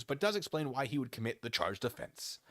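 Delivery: ordinary delivery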